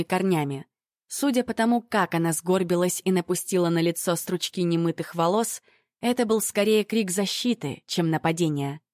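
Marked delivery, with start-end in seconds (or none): none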